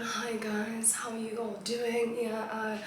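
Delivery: mild polite student greeting; school presentation voice. Retold or imitated. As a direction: open politely in front of class. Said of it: "o bula ka".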